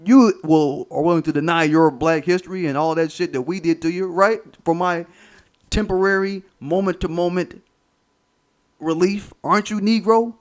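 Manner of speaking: a hint of a sly, chummy friend nudging you; mock Latino buddy voice. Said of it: "jab an elbow into and say".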